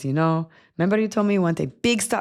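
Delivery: bad, terrible, put-on fake Spanish accent. Quoting what she said last night, in a terrible fake Spanish accent. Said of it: "I'm making her sound Spanish".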